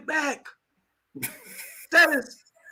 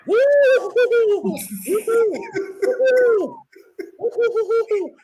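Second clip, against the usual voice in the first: excited whoops; 9 semitones higher, much slower than usual. Retold or imitated. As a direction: cheer like you just hit the jackpot. Excited cheering over crypto gains.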